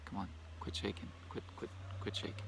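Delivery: quick muttered grumble at the phone; muttering under breath. Real, not acted. Scolding the shaking phone.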